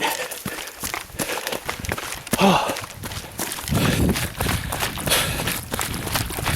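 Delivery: long panting exhale after running; heavy breathing. Real, not acted. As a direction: blow out air hard while running. Heavy exhale during trail run.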